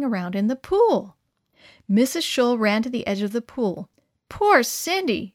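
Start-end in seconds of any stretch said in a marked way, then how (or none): 4.3-5.3 higher, slow and tender; mild pity. Acted. Mother at the pool edge, gentle slow pity. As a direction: soften over the struggling dog. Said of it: "she said as the dog tried".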